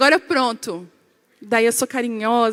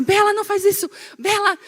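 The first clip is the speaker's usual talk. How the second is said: put-on higher-pitched mum telling off a child; mock scolding; 7 semitones higher than usual. Mother correcting little Bela, retold scolding. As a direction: imitate a mother correcting her daughter. Mãe corrigindo a filha.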